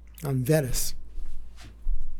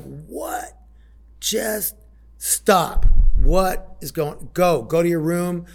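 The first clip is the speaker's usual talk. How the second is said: raised, higher voice telling her to stop; retold yelling; 5 semitones higher, 6 dB louder, slower than usual. Father yelling at his fighting daughter to stop, higher and louder. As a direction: bark the order to stop, half-replayed.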